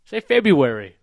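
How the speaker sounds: February without the first R, feb-yoo-ary; correct February. Shown as a demonstration. Quizzing a friend on February, said feb-yoo-ary. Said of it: "Where's the extra R?".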